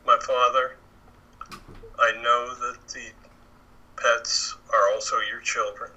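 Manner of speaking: slow, earnest prayer to the Father; spoken prayer. Acted. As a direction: pray for the sick cat, unhurried. Begins praying for cat.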